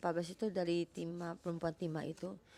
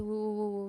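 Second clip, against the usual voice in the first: mock wailing "wu-wu-wu"; imitated crying; 3 semitones higher, 3 dB louder than usual. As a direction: imitate someone crying, lightly acted. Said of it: "kemungkinan ada nangis".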